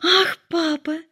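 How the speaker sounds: высокое восторженное «Ах, папа!»; дочери хором ахают от радости; радостный возглас. A narrator's reading. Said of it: "в унисон воскликнули". (дочери радостно восклицают хором, высоко и звонко)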